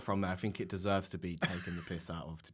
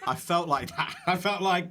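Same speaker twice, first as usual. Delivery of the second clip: higher, laughing through the words; 8 semitones higher, 5 dB louder than usual. Real, not acted. Comic retelling to host, laughing. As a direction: giggle as you say it.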